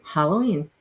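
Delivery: Halloween with "hah", low, falling; own pronunciation. Shown as a demonstration. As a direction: finish on Halloween as "HAH-lo-ween". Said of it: "that's how I say it".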